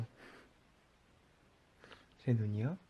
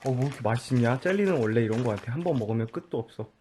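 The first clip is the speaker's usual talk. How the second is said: talking while chewing jelly; lip smacking; faster than usual. Real, not acted. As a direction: smack your lips as you chew and talk. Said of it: "너 쩝쩝거리며".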